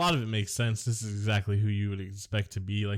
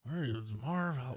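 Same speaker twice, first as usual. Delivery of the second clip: Marv Albert voice; 3 semitones higher, 8 dB quieter than usual. Acted. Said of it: "Marv Albert impression".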